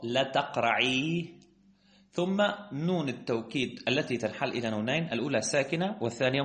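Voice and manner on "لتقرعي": "لتقرعي" drawn out on the final ee; lengthened final ya. Shown as a demonstration. Teacher isolating the remaining ya, "لتقرعي" with long final ee. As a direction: hold the long ee ending "لتقرعي". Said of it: "بقي عندنا حينئذ ياء المخاطبة".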